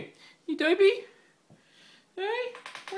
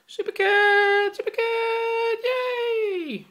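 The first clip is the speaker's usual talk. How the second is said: calling from far away; 6 semitones higher, much slower than usual. Real, not acted. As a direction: call him over from afar. Calling cat over, cheering.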